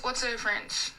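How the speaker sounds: imitating a deadpan customer; straight-faced question. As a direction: ask it in all seriousness. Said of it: "literally with a straight face".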